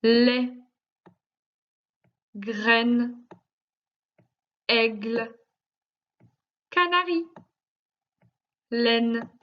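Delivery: "Lait, graine, aigle, canari, laine" read one at a time with long pauses; careful word-by-word reading. Shown as a demonstration. Teacher reading a line for the pupil to spot the intruder, careful word-by-word reading. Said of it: "Écoute bien".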